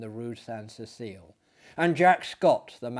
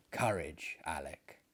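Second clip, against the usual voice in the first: soft, lower, breaking with grief; 8 semitones lower, 10 dB quieter than usual. A narrator's reading. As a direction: choke out the words gently. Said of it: "His voice broke".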